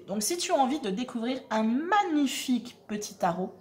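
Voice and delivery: usual speaking voice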